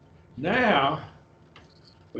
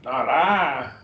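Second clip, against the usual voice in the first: "I" raised and drawn out for emphasis. Shown as a demonstration. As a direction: lift your voice a little on "I". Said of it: "you could raise your voice when you're reading it".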